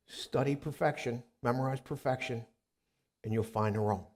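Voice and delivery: calm instruction. Retold or imitated. Retold experts' calm instruction.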